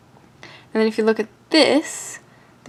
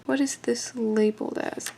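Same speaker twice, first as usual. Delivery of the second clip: soft unvoiced whisper, slowly; whispered question; 6 dB quieter than usual. Real, not acted. Maker whispering to herself over the part, slow whisper. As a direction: murmur the question to yourself.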